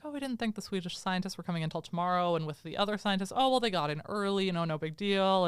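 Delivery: casual, softly tossed-off excuse; pretty chill. Retold or imitated. Eugene Levy explaining the scientists to guards, mock casual. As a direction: play it cool, brush it off lightly. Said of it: "Eugene Levy's being pretty chill".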